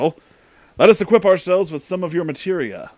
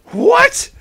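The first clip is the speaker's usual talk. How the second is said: much higher, louder shocked yelp; 8 dB louder than usual. Acted. The teaboo girl, insulted as a hipster, shrieks a shocked what. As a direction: squeal in outrage.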